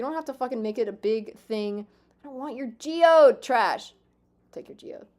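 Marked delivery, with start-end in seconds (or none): 2.2-3.9 loud, high, offended; mock outraged refusal; mock indignant yell. Voicing villager's rejection. 4.5-5.1 unvoiced whisper, very soft; sulky whispered aside. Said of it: "unvoiced whisper".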